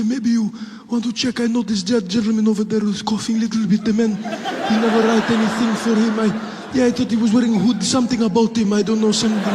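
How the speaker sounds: put-on high polite hesitant Middle Eastern accent. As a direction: play a timid Middle Eastern passenger tattling. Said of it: "a Middle Eastern man".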